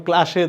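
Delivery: ক্লাসে said with sh, klaashe. Shown as a demonstration. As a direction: common mispronunciation klaashe for ক্লাসে. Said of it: "এটা কিন্তু ভুল".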